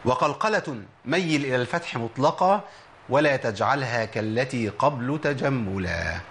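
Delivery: slow, measured recitation of a tajweed poem; recited verse. Shown as a demonstration. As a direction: chant the couplet slowly like a lesson text. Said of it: "قول أحد العلماء".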